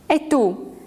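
sharp high cry of challenge; startled outraged shout. A narrator's reading. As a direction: fling the question at him. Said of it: "gridò".

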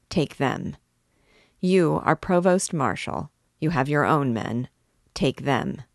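controlled, measured anger in steady orders; cold wrath. Acted. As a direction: hold the rage tight and cold. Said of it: "with cold and concentrated wrath".

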